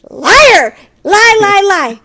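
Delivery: high loud accusing yell; high-pitched shout of outrage; mock shouting liar. Calling husband a liar.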